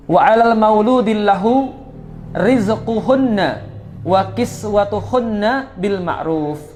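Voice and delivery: slow, drawn-out recitation; Quran recitation. Acted. Preacher reciting the nafkah verse to listeners, slow recitation. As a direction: stretch each word of the verse.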